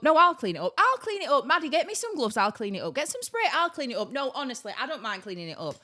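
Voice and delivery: mock argument, insistent overlapping offers; bickering volunteers. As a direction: act out two women competing to help. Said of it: "two women arguing over who were gonna clean".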